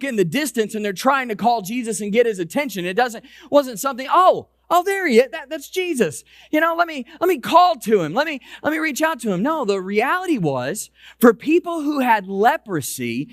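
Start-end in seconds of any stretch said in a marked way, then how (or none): 4.1-9.4 higher, lightly acted eager chatter; excited spotting. Preacher imagines someone spotting Jesus far off, mock excitement. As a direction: act out spotting someone you want to reach.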